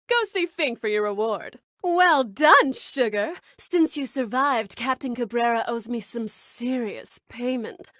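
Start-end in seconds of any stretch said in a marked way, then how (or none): 1.8-7.9 sexy voice. Acted. Congratulating a survivor, sexy and suggestive. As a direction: purr it seductively. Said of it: "hard to turn that sexy voice off".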